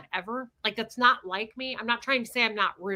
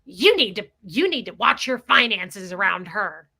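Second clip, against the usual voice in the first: bossy warning; 2 semitones lower, 6 dB louder than usual. Retold or imitated. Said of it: "she's like".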